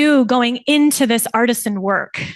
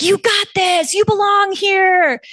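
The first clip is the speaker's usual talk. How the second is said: confident inner voice; 9 semitones higher, 4 dB louder, slower than usual. Retold or imitated.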